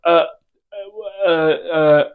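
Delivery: hesitant uh, uh, uh filler; mock stutter. Imitating a nervous caller stuttering on the phone. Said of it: "kind of stutter and go like".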